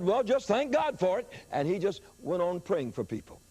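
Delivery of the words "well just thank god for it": matter-of-fact preacher. Retold or imitated. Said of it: "He said".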